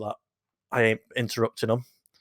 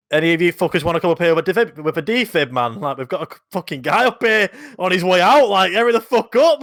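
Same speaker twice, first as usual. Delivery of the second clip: urgent call down from the balcony, loud and high; retold yell for help; 6 semitones higher, 6 dB louder than usual. Gym worker shouting to staff below for a defib, urgent yell. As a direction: shout for a defibrillator, hurrying them.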